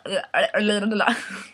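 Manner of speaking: mock lapping tongue babble; babbled tongue noise. Breaks off "I like the le.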